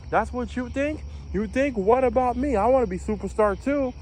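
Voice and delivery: mock drill-chief rant, pitched well up; chief yelling. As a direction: imitate a chief chewing out a recruit. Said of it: "in my ear and yelling, yelling, yelling".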